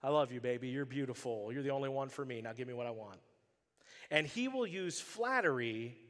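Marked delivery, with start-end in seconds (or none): 0.0-3.2 put-on smooth manipulative boyfriend. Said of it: "the guy who will say whatever it takes".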